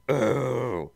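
high, loud cooing Teletubby; chorused Teletubbies. Acted. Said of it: "the Teletubbies chorused".

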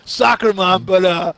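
a light take on a drawling rock star, barely changed from his own voice; lightly voiced aging metal guitarist; metal guitarist impression. Friend hosts a Halloween game, lightly imitating a metal guitarist. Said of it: "here's the imitations".

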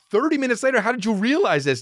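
mock-incredulous questioning. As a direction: question Dad as if baffled. Questions Dad in disbelief.

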